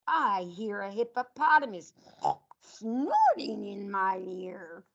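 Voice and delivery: sing-song picture book read to a class; reading to children. Acted. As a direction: read it out like storytime for little kids. Teacher reads animal picture book.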